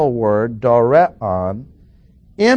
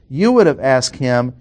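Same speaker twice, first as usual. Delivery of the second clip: "You" pitched up, the rest falling away; stress on "You". Shown as a demonstration. Teacher restating the verse, stress on "You". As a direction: open on a lifted "You". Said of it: "It means put stress here".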